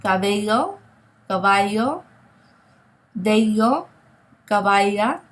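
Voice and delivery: "Cabello", "caballo", "bello", "caballa" with a soft v-like b; soft Spanish b. Shown as a demonstration. The teacher shows students the soft fricative b in each word. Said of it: "it's a very soft sound".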